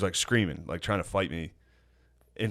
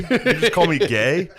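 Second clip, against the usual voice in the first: high, loud mock bro voice; dumb bro voice; 7 semitones higher, 6 dB louder than usual. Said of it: "everybody to be like".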